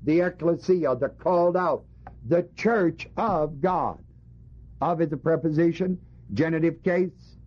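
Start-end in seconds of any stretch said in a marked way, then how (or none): 2.3-4.0 "The church of God" spaced out slowly word by word; slow, deliberate phrase landing on "God"; emphatic GOD. Shown as a demonstration. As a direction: teach it slowly, setting "God" apart. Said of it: "It emphasizes God".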